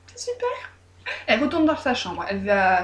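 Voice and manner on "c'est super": ravie et niaise. A narrator's reading. Oulek niaise.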